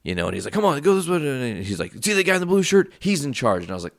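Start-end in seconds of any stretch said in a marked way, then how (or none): 0.5-1.2 retold pissed-off order. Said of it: "pissed off". 2.0-3.6 retold pissed-off direction. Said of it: "pissed off".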